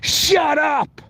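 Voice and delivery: half-hearted mock blow-up at the wife; imagined outburst. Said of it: "I just feel like going".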